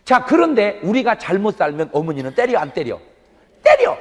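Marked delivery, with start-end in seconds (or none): 3.6-3.9 sudden high loud 때려; emphatic shout. Acted. Preacher telling the congregation mothers do hit, shouted. Answers own question emphatically.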